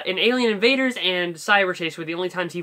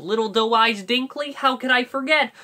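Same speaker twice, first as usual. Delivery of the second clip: Shaggy voice; 6 semitones higher, 3 dB louder than usual. Retold or imitated. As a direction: do the goofy cartoon hippie. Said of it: "Like, that's Shaggy".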